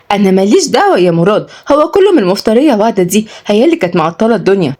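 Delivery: put-on mildly merry young woman; playful. Sister blames the other for the delay, playfully. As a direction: tease lightly, passing the blame along. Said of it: "ردت ياسمين بمرح".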